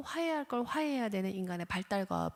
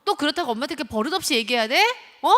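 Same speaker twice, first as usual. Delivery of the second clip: loud, fast, higher scolding rant; blaming scold; 4 semitones higher, 8 dB louder, faster than usual. Retold or imitated. Parent blaming the rude child, loud fast scolding. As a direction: tear into the child for rudeness. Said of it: "하면서 비난을 하기 시작하죠".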